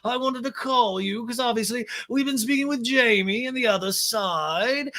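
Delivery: high put-on voice with stretched phrases; Lisa impression. Boss advising girls about business on a call, mock impression. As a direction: lecture them from up high in pitch. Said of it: "And Lisa's like".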